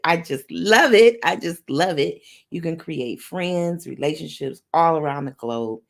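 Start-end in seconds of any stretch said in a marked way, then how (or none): 0.0-2.2 gushing delight. Shown as a demonstration.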